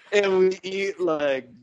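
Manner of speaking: lightly voiced stoned jam-band fan; dreamy burnout dude, drifting; stoned hippie.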